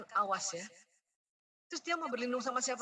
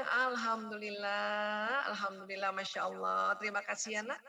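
lower, gentle thankful voice; grateful praise; 3 semitones lower than usual. Shown as a demonstration. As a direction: thank the child warmly. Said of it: "Kenapa sih nggak bilang".

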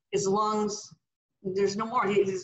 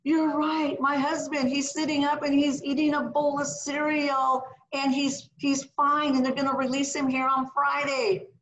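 hysterical; 5 semitones higher than usual. Retold or imitated. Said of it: "she's hysterical, screaming at the top of her lungs".

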